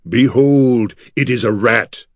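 a grand, loud proclamation; solemn intoning. Acted. Artek unveiling the rat to the priests, grand intoning. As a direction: announce it like a prophet. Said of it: "Artek intoned".

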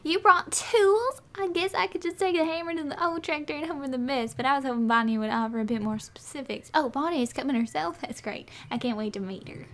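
lightly voiced farmer, high opening question; hopeful farm character. Farmer hoping for help with the farm, lightly acted voice. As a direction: play a chatty farmer, starting high and surprised. Reads farmer's dialogue aloud.

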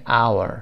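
"our" opened straight on an "ow" vowel; silent-H "au" sound. Shown as a demonstration. Teacher likens the word to hour, saying "our" as "OW-er".

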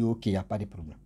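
low, soft, quick acknowledgement; calm reassurance. Retold or imitated. Man of God answers the distressed woman, calm and low. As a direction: play the unruffled man of God, voice dropped.

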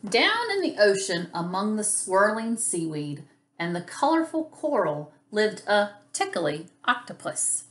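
lively, lilting picture-book narration; story read to children. A narrator's reading. Teacher reads about a tickly octopus to children, lilting storytelling. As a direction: read it playfully for small children.

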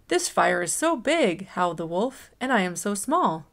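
put-on gentle storytime narration for kids; reading to children. A narrator's reading. Librarian reading a picture book to children, gentle storytime voice. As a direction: read it like storytime for little ones.

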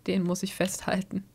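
unvoiced whisper. Real, not acted. Streamer whispering while grabbing a screenshot. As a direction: whisper it to yourself.

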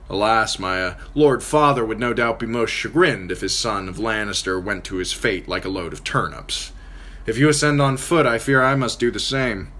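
lightly taunting, easy and mocking; Tyrion's mocking voice. Tyrion teasing Catelyn about pride, mocking.

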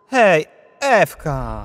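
calling out. Acted. Boy calling out slowly.

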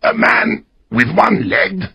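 mild fear at the name; very frightened. A narrator's reading. Castaway fearing Silver, asks Jim, mildly frightened. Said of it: "very frightened".

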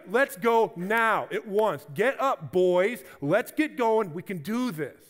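loud rallying cry to the troops; rallying call. Retold or imitated. Caleb rallying the men, loud and urgent. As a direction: rouse the boys to get moving. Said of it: "And he's like".

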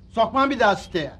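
ordinary talk, nothing marked

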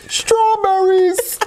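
high, slow, drawn-out shout; excited punchline. Acted. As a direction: stretch the punchline out triumphantly.

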